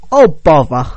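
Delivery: lightly voiced Winnie the Pooh sigh; a mild, weary Pooh-style sigh; a hint of Pooh Bear. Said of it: "That sounds like Winnie the Pooh Bear".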